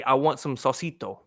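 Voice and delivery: "salsito" with a light mock Spanish accent; lightly put-on Spanish accent, joking. Joking about his silly habit, light mock Spanish accent. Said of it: "I say it with a Spanish accent".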